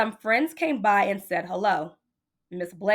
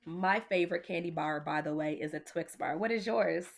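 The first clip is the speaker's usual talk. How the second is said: soft aside; 3 semitones lower, 7 dB quieter than usual. Real, not acted. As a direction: lean in and share a secret. Aside to listening kids.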